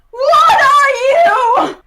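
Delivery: high, loud scream of alarm; full-out panicked yell, high-pitched; screamed question. Acted. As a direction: scream it at her. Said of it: "he just screams at her like".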